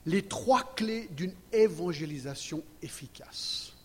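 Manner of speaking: whispered slowly for effect; whispered title. Shown as a demonstration.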